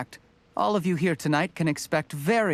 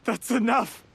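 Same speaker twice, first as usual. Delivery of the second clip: sharp outburst; 9 semitones higher than usual. Acted. Cornered villain snaps.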